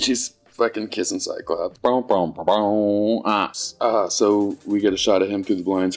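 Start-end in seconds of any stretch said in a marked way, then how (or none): 1.8-3.2 mock dramatic sting. Voices dramatic sting after the kiss.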